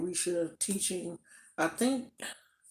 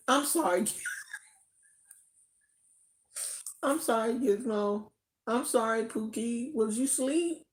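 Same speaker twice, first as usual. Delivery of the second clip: high, sing-song apology to a pet; 5 semitones higher than usual. Real, not acted. To her startled sleeping dog, high cooing apology.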